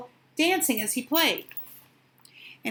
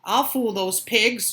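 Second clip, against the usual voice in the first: chuckling; slower than usual. Acted. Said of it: "chuckled the big bad wolf to himself".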